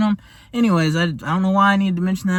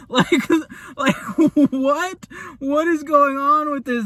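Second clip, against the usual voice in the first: amazed; 7 semitones higher, slower than usual. Real, not acted. Amazed at the burger.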